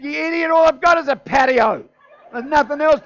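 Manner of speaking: high, very loud outraged yell; exasperated shout. Acted. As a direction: explode at the kid in comic fury. Retold outburst at cheerful neighbour kid.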